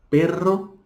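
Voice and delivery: Perro with a rolled rr; Spanish trilled rr. Shown as a demonstration. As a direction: roll the rr strongly in Perro. (Perro com rr vibrante)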